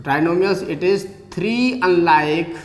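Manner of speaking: slow, measured teacher dictation. Shown as a demonstration. Teacher defining trinomials, slow and measured. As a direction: spell it out slowly for the class. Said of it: "teacher dictating the definition".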